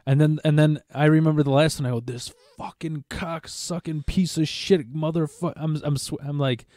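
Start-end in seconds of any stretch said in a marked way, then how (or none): 2.0-5.5 Joe Pesci rant. Retold or imitated. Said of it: "ranting like Joe Pesci in Home Alone".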